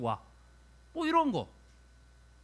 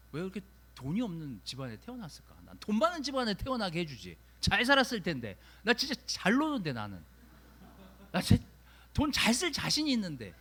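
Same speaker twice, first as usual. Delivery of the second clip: mock grumbling. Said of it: "이러고 막 불평하는 거죠".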